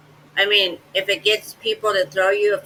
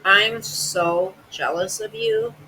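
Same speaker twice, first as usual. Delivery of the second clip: slow, dripping mock jealousy; sarcastic; slower than usual. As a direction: drag it out, make fun of her. Sarcastic reply to "is it envy.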